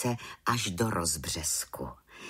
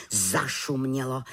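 ordinary delivery

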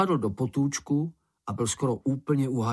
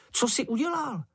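much higher, anxious little creature voice; Sniff's alarmed question; 13 semitones higher than usual. Acted. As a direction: demand an answer, wide-eyed.

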